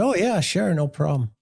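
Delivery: high, airy fake-casual yes; feigned easygoing cop; mock breezy agreement. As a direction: brush it off sweetly, a put-on.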